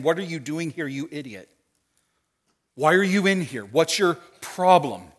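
mock-angry accusing questions; mildly exasperated, drawing out the final challenge; mad God. Mad God scolding Elijah in his cave, mock anger. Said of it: "If we hear mad God speak".

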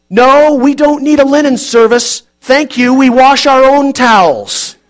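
put-on old man's voice. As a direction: boom it out like a half-deaf old man.

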